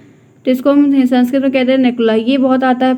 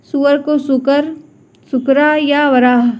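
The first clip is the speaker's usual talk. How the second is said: slow, clear naming; slower than usual. Shown as a demonstration. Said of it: "आता है प्रश्न इसीलिए लिया है मैंने".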